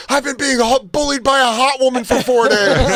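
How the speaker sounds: half-laughing hammed-up yell for the photo; mock yell. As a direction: shout it out while cracking up. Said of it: "Yell something out".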